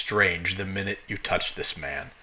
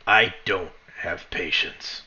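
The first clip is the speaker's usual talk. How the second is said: slow, lower warning; lightly voiced stern guard; 5 semitones lower, slower than usual. Guard warning the fallen charger, slow and stern. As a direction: measure out the threat slowly and low.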